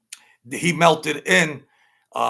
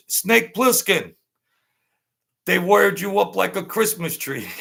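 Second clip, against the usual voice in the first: mock jeering shout; 7 semitones higher, 4 dB louder than usual. Retold jeering nickname shout.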